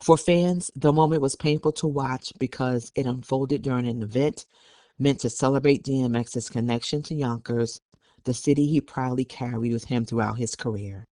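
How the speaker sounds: measured news-report delivery; news read. Acted. Co-host reading a report on the family dispute, news read. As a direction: read the article out evenly.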